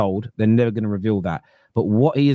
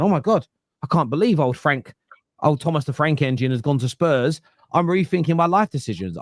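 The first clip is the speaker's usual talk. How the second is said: higher-pitched mock disbelief; mock shock; 5 semitones higher than usual. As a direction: act out a stunned morning realisation, hammed-up. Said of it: "waking up this morning, being shocked".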